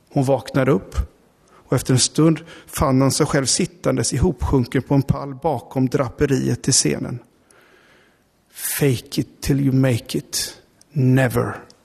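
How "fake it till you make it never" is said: whispered aloud, much slower. A woman, waking slumped behind the stage curtain, whispers aloud to herself. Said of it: "viskade hon högt till sig själv".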